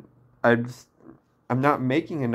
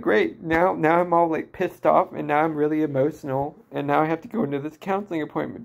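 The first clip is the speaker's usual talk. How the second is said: raised, fast, sarcastic self-talk; replaying her own fed-up thoughts, pitched up; frustrated inner voice rattled off fast; exasperated inner rant; 3 semitones higher than usual. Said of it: "And I'm like".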